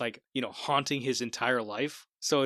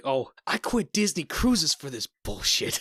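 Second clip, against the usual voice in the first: mock complaint; 2 semitones higher than usual. Quoting Jeffrey Wright's line.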